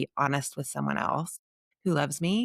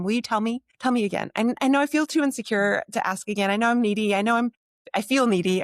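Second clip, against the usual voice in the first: pitched up, louder, pleading; needy plea to friends; 6 semitones higher, 4 dB louder, faster than usual. Retold or imitated. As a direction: beg friends to remind you who you are.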